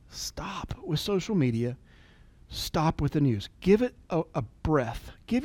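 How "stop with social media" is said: whisper. Real, not acted. Quiet urgent plea to listeners.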